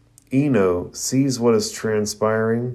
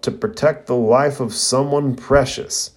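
higher-pitched, restrained declaration; a mild yell, raised in pitch rather than volume; determined yell; 4 semitones higher than usual. Acted. Rock Lee yells as he casts, raised but restrained. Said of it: "yells out loud".

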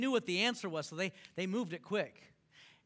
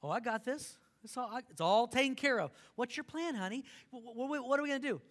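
lightly voiced fretful wife, rising; a hint of the anxious wife pressing her husband; wife asking her husband for his plan, mildly worried; imitating the wife; 4 semitones higher than usual. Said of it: "the wife comes in".

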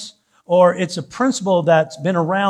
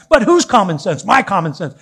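sarcastic; 2 semitones higher, 5 dB louder than usual. Acted. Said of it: "I'll be kinda sarcastic about it".

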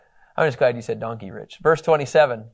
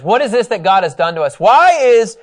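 panicked brothers; 7 semitones higher, 7 dB louder than usual. Retold or imitated. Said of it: "And they says".

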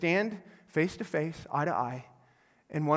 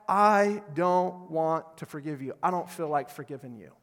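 put-on sulky child; 3 semitones lower than usual. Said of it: "the person said".

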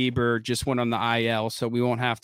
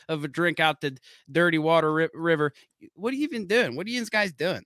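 mock Pittsburgh yinzer; 4 semitones higher than usual. Hosts riffing on Pittsburgh, mock yinzer accent. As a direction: play a proud Pittsburgh local, hammed up.

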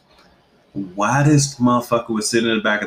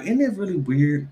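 slow, higher pondering; mock philosopher; 5 semitones higher than usual. Mother musing to the therapist, mock pondering. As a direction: muse with fake depth. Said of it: "I was like".

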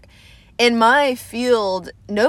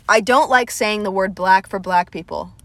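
her own Southern accent on the line; lightly Southern drawled vowels. Shown as a demonstration. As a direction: let the Southern accent come through plainly. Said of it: "do you see my accent when I even say".

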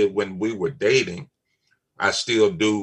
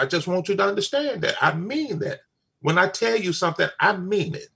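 quick, raised, insistent retelling; firm retold warning; 7 semitones higher than usual. Father to girlfriend about his children, insistent warning. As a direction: press each "I mean it" home.

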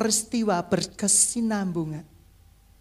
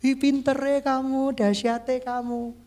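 flattering; 4 dB quieter, slower than usual. Acted. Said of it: "kata-katanya kadang meninggikan kita".

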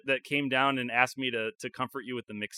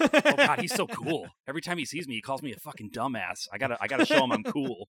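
gushing admirer; 4 dB louder than usual. Retold or imitated. Voicing an impressed admirer.

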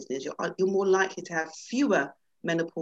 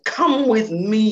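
loud, very slow order; slow fierce lion command; roared command; 4 semitones higher, 10 dB louder, much slower than usual. Acted. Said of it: "he roared".

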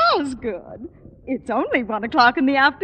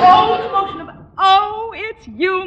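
delighted; 8 semitones higher, 6 dB louder than usual. Acted. Wife greets surprise guests.

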